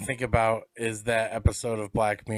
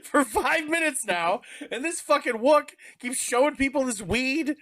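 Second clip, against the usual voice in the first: higher, louder fed-up rant; annoyed cursing; 10 semitones higher, 4 dB louder than usual. Retold or imitated. Red Wing fuming at the stoner blocking the panel, higher louder rant. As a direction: vent like a man stuck in line. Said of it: "He's like".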